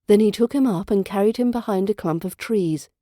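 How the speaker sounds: storybook reading with voiced figures; fairy tale narration. A narrator's reading. Narrator reading a Grimm tale to learners, storybook style. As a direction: read the old tale to listeners.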